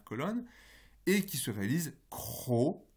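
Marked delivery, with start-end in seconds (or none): 2.1-2.9 cro with a voiceless r; voiceless r demo. Shown as a demonstration. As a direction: say cro with a devoiced r. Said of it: "avec un re sourd".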